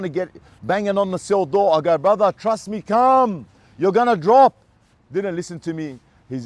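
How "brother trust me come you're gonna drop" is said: higher, louder pleading to a cellmate; urgent warning. Retold or imitated. Warning the cellmate before the gas hits, urgent and louder. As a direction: urge him to come before it's too late.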